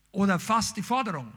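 ordinary delivery

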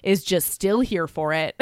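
mildly bitter retold confession, slowing down; a little bitter. Host retells her grudging love for him, mildly bitter. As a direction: imitate a touch of bitterness, drawn out. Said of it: "She's a little bitter".

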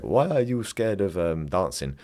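lightly imitated Count-like foreign accent; hypnotherapist's accent. Imitating the hypnotherapist asking about dancing, in a light put-on accent. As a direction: put on a hint of the therapist's accent. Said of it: "I'm doing his accent".

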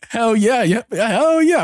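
hammed-up giddy celebration; excited. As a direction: cheer it way up high, drawn out at the end. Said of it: "I'm just here excited".

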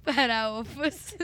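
Faraófas drawn out slowly; slow repeat. Shown as a demonstration. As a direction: stretch out Faraófas slowly with a rise.

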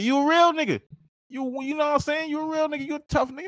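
a high, admiring alien voice sizing the man up. Retold or imitated. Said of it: "he's like, look at you".

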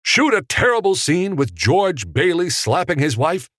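loud, high-pitched indignant tirade; acted outburst of a riled director; outraged disbelief. A narrator's reading. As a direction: protest in incredulous high pitch. Director refusing to shoot scene.

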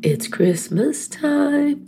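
crying with a runny nose. Real, not acted. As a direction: speak through tears. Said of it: "I'm crying".

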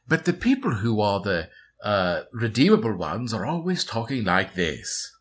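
lightly voiced refined, redeemable antagonist; educated villain voice.

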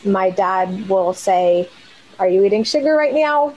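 ordinary delivery

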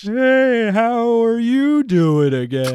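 loud, high attempt at an Irish lilt, slow at the end; a failed Irish accent, hammed up; bad Irish accent. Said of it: "Irish accent out".

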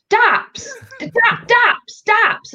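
high-pitched, insistent single words; mock exasperated repeating. Guest retelling explaining slang to Londoners, high mock exasperation. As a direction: repeat it as if they should understand.

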